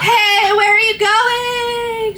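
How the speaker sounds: high, slow laughing question; laughing call. Acted. Satan calling after the falling girl, laughing. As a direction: call after her, cracking up.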